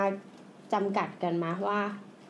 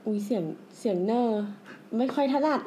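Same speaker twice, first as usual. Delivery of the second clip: tentative provincial Thai "neo" accent; rural Thai accent. Shown as a demonstration. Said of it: "แนท แนทลองพูดเสียงเหน่อดิ".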